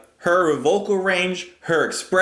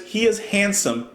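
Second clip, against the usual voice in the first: rising higher; 6 semitones higher than usual. Shown as a demonstration. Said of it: "starts to get a little higher".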